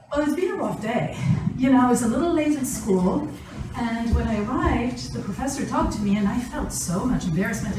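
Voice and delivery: lightly voiced upset student; voicing the daughter explaining her rough day, a touch of embarrassment; imitating the daughter. Daughter tells parents about her bad day, lightly voiced and sheepish. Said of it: "We would like to hear something to the effect of".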